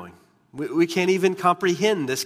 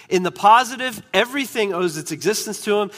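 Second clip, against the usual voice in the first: higher and louder, driving the point home; emphatic preaching; 5 semitones higher, 3 dB louder, faster than usual. Real, not acted. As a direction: lift it up and press hard on positive. Emphatic restatement of same point.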